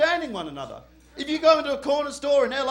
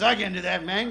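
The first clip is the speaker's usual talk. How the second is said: lower-pitched mock Mexican English; badly faked Mexican accent; 5 semitones lower than usual. Front-row guy refusing the request, badly faked Mexican accent. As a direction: put on a rough Mexican accent. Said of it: "a shit attempt at your accent".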